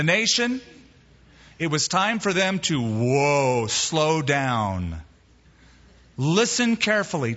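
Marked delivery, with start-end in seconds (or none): 2.8-5.0 low, drawn-out falling whoa; horse command. Acted. Preacher telling the nation to stop, low drawn-out whoa. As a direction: rein them in with long low words.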